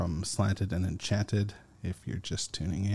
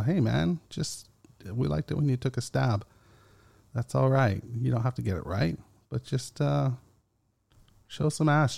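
raised, casual mock voice of a fan egging him on; lightly playing a listener, pitched up; imitating a listener; 4 semitones higher than usual. Listener feedback urging the host to guess, higher mock voice. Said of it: "people that are like".

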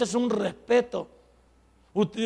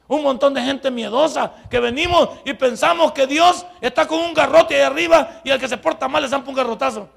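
loud fervent sermon, a bit higher; preaching loudly; 3 semitones higher, 6 dB louder than usual. Real, not acted. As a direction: scold the fearful churchgoers. Pastor preaching at full force.

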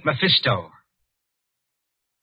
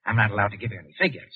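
quick, laughing refusal; 4 semitones lower, 3 dB quieter, much faster than usual. Acted. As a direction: laugh it off, rushing the words. Laughs while refusing the doctor.

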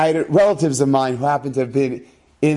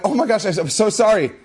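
embarrassed laugh; 5 semitones higher than usual. Real, not acted. Apologising after forgetting appointment.

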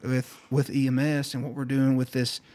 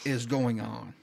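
slow, stunned retelling of overload; retold bewilderment; 4 dB quieter, much slower than usual. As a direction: drag out the question, mildly dazed. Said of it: "I was overstimulated with noise".

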